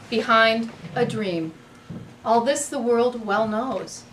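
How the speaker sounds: measured poetry reading, lingering between phrases; sonnet recital. Acted. Host reading Shakespeare to the poetry crowd, measured recital. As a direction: recite the sonnet slowly, letting each phrase land.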